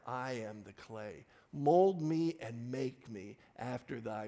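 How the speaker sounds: slow, measured reading of a hymn; hymn verse recitation. Acted. Preacher reciting the hymn's first verse, solemn. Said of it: "the first verse goes like this".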